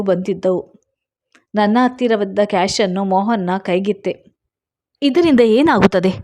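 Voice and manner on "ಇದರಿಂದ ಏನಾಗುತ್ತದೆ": a touch of anger, slightly raised; mildly angry challenge to her. Acted. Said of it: "ಅವನ ಧ್ವನಿ ಕೋಪದಿಂದ ಕೂಡಿತ್ತು". (ಸ್ವಲ್ಪ ಕೋಪದ ಧ್ವನಿ)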